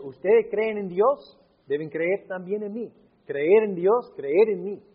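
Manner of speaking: preacher's forceful plea; emphatic preaching. Acted. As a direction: urge the congregation to believe. Preacher paraphrasing Jesus, emphatic.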